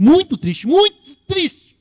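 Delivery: building to a high, loud, slow mock wail; mock sad. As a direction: ham up the sadness. Sermon, repeats to mock Jonas.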